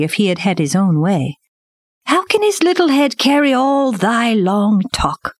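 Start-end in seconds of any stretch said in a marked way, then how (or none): 2.0-5.3 high, questioning panther voice; protesting panther. A narrator's reading. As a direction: protest on the cub's behalf, pitched high.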